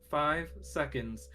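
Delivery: ball's announcement. Acted. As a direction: announce it slowly like a talking gadget. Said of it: "As the ball says".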